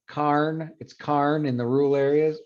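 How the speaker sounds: Karn said with an "ar" vowel, for corn; rural Utah pronunciation. Shown as a demonstration. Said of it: "in some of the rural areas".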